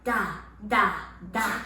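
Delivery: a crisp "Da" with a puff of air; demonstrating a breathy "Da". Shown as a demonstration. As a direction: pop the d of "Da" so air hits the hand. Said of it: "put your hand in front of your mouth and go".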